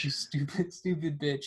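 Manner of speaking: plain voice breaking into a laugh on stupid; amused repeat with a laugh. Retold or imitated. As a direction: giggle through the insult.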